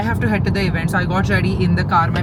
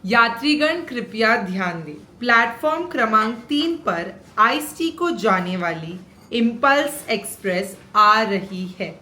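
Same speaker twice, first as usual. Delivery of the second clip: station announcer voice-over; train announcement; 2 semitones higher than usual. Shown as a demonstration. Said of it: "मैं voice over कर रही हूँ". (रेलवे station announcer की आवाज़)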